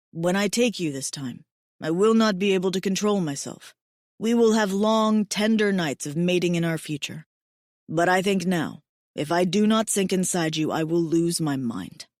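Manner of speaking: a hint of a devoted big mate; tender alien mate. Mate, barely controlled desire.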